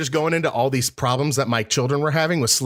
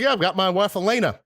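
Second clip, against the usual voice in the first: higher-pitched Southern voice; Southern accent; 7 semitones higher than usual. Retold or imitated. Prank caller inventing a wife, Southern accent. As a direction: put on a Southern accent for the retelling. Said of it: "I'm talking in a Southern accent".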